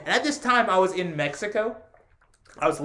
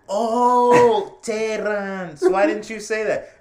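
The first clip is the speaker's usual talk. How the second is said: lightly voiced coworker, suddenly getting it; relieved coworker; 4 semitones higher, 6 dB louder, much slower than usual. Office coworker finally hearing his name, relieved. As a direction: brighter "oh" of sudden recognition. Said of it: "and they'd say".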